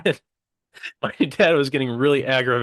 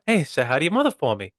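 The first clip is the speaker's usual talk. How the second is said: Mark Wahlberg-ish voice; 3 semitones higher than usual. Retold or imitated. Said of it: "just keep it Mark Wahlberg. That was pretty good".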